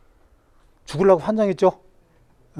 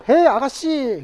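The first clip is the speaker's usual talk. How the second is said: calling bird; 7 semitones higher, slower than usual. Acted. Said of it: "지나갔는데 불렀어".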